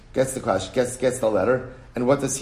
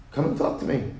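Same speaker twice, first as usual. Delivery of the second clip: plain appeal; 5 dB quieter than usual. Shown as a demonstration. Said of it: "repeated appeal".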